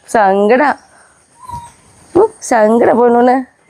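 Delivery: put-on cooing baby talk, drawn out slowly. Owner cooing to sad puppies, baby talk. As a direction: coo at them like a toddler.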